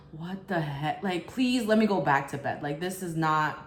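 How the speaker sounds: imitated unbothered grumble; nonchalant. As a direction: mimic a boyfriend who just wants his bed. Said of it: "his response was so nonchalant".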